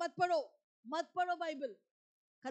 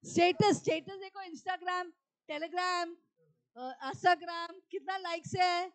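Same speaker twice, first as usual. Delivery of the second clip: mock-excited tempter; 2 semitones higher, 5 dB louder, slower than usual. Devil urges believer to check status and likes, mock-excited. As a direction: tempt them with hammed-up excitement.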